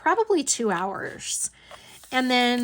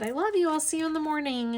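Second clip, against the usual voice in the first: high, sweet retold goodbye; replaying a loving send-off in a higher voice; affectionate; 6 semitones higher, faster than usual. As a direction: lilt a fond farewell, pitched up. Retells affectionate goodbye to aunt.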